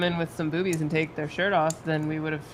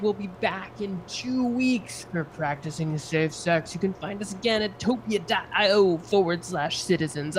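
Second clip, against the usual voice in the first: announcer voice. Pretend. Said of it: "I don't always talk this way".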